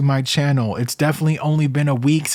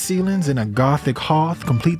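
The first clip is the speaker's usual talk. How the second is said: put-on light Southern accent reading a listing; 4 semitones higher than usual. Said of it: "like, a Southern accent".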